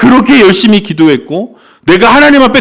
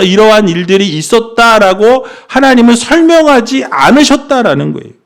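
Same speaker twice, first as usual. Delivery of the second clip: ordinary talk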